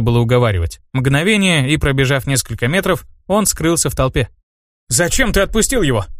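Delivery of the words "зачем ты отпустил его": angry question. A narrator's reading. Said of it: "зло спросил у меня Миша".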